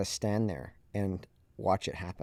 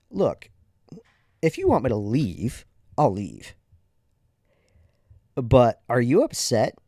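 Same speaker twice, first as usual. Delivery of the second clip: firm confrontation; 4 dB louder than usual. Retold or imitated. Confronting angry father.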